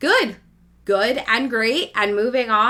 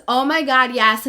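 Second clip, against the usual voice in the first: mock pleasure; 4 semitones higher, 4 dB louder than usual. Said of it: "the one that says".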